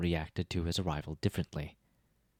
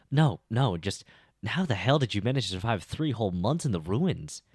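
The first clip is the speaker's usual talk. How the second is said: amazed outburst; 5 semitones higher, 6 dB louder than usual. Acted. Effie amazed he survived.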